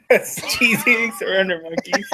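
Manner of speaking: giggling through the words; laughing. Real, not acted. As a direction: laugh while saying it. Repeating the joke, laughing.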